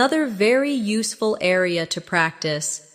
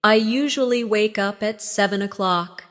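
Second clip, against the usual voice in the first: a little slower, as a model to repeat; slowly. Shown as a demonstration. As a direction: ease the pace slightly for learners. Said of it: "Say it slowly".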